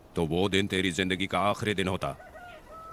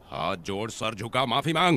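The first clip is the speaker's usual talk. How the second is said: demanding apology, building to a shout; short orders climbing in pitch; escalating command; 3 semitones higher than usual. Acted.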